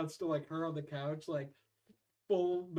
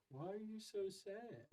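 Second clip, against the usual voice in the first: gentle dad; 2 semitones higher, 11 dB quieter, slower than usual. Retold or imitated. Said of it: "The dad's like".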